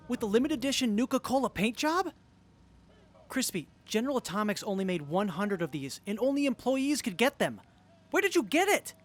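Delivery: building from eager to high, loud thrilled squeal; excited. Acted. Fan overwhelmed by a rare model kit, rising excitement.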